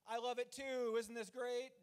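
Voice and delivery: cutesy show of delight; mock elated. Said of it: "all that elated bullshit".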